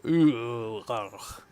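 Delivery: loud drawn-out 'ooh' into 'ugh'; big cringing groan; disgusted groan. Real, not acted. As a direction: groan in cringe at what you just read. Reacts to the text just read.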